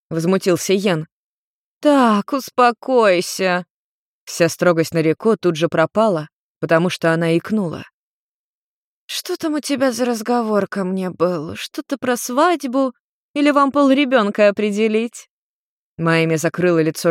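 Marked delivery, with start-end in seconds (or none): 1.8-3.7 high, slow stern "calm down"; mother telling her angry son to calm down; strict mother. Acted. 9.1-15.3 mother teasing her son about a wedding; teasing tipsy mother. Acted. Nariko teases couple.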